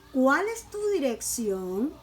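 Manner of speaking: CUÁL stressed, dirección lifted as a question; teacher's example question with emphatic CUÁL; question intonation. Shown as a demonstration. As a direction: model "¿Cuál es tu dirección?" so it clearly sounds asked. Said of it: "la pronunciación cambia".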